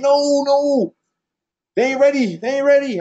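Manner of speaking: high, insistent imitation of worried friends; mock alarmed protest. Voicing friends protesting the video.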